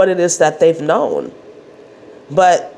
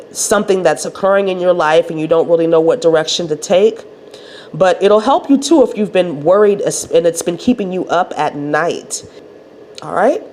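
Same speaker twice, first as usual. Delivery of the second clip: nasal voice. Real, not acted. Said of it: "dealing with my nasally voice".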